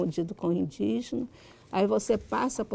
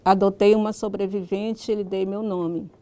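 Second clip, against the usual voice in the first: literary reading aloud. Acted. Writer reads a passage from her book to listeners, reading aloud. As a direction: read the story out in measured, carefully articulated phrases.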